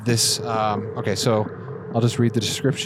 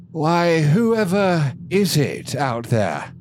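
put-on old man voice; 5 semitones higher, much slower than usual. Overseer answering behind door.

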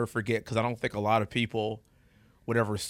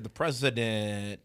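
drawn out slowly in disbelief; slow, incredulous echo; stunned disbelief; 3 semitones lower, much slower than usual. Retold or imitated. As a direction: stretch the words out, taken aback. Stunned reply to surprise call.

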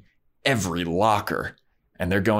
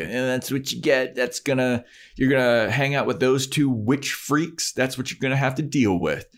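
snotty Cordelia; 4 semitones higher than usual. Retold or imitated. Cordelia voiced bitching Buffy out.

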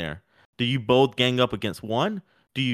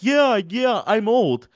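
mock agreeing; 10 semitones higher, 5 dB louder, much slower than usual. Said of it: "And Volk was like".

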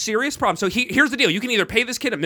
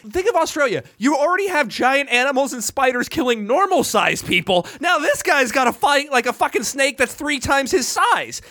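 high, heated comic rant; worked-up arguing; 5 semitones higher than usual. Real, not acted. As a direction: argue it like it matters. Heated mock argument.

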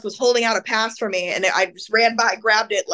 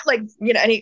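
normal talking voice

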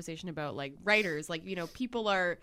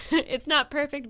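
loud sharp voice; 7 semitones higher, 6 dB louder than usual. Acted. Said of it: "Sorry to steal your thunder".

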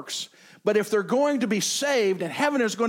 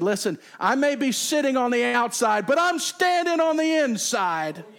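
defiant; 5 semitones higher, 3 dB louder than usual. Retold or imitated. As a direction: talk back like a stubborn kid. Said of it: "defiantly said".

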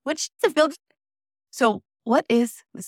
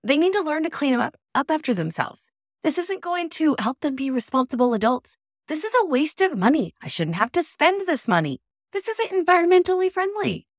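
whiny voice; 7 semitones higher than usual. Shown as a demonstration. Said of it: "I'm saying this in a whiny voice".

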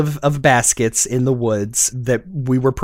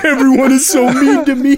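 higher, louder sulky whine on so; whiny character voice; 11 semitones higher, 4 dB louder, faster than usual. Retold or imitated. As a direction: stretch the so like a pouting cartoon. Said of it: "That's exactly what I thought".

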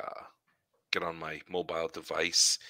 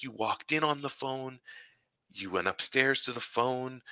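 lightly imitated wife, pitched up; a hint of the wife's higher voice; wife's remark; 5 semitones higher than usual. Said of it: "She's like".

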